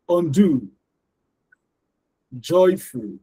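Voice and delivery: each word from "singer" to "export" with both syllables fully emphasized; isolated words, neither syllable of "singer", "mentor", "actor" reduced; wrongly, both syllables. Shown as a demonstration. Teacher pronouncing example words wrongly for learners, both syllables emphasized. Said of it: "I'm gonna pronounce them all wrongly".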